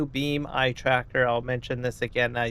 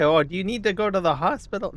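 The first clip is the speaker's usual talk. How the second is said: worried friend; 7 semitones higher, faster than usual. Retold or imitated. Friends voiced, worried question.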